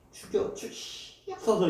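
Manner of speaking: slow, whispered begging for death; humble plea. Retold or imitated. Preacher voicing a humbled man before the magistrate, whispered.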